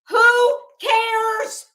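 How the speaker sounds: loud, high scoffing brush-off; mock brush-off. Mocking a troll's dismissive attitude.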